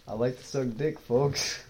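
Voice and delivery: lightly voiced camp caricature; hint of a camp impression of a friend; Kyle. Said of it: "Kyle, but gay".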